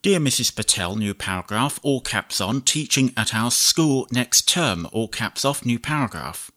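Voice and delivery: measured dictation, punctuation spoken aloud; slow dictation with punctuation. Shown as a demonstration. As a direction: dictate to the computer, clear and even. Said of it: "demonstrate how you can dictate much longer chunks".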